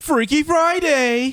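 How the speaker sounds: very high excited yelling. Calling out a comparison while others describe a movie's plot: yelling. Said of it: "why you yelling though?".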